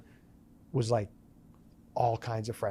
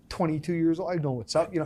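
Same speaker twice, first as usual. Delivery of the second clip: mock cocky; 4 semitones higher than usual. Mocking his younger cocky self.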